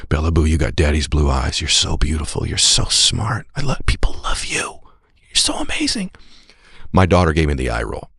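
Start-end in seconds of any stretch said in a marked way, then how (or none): 0.1-6.1 tender ritual. Retold or imitated. Father's nightly blessing to his daughter, tender.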